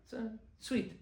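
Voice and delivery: high, laughing then soft belittling praise; mock-patronizing chuckle; dismissive cute. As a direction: brush it off as merely sweet. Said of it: "For a Jew to".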